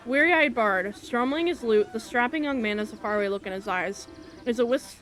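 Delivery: projected storybook reading; phrase-by-phrase dramatic game narration; story narration. A narrator's reading. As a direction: narrate it like a fantasy tale. Reads game story aloud.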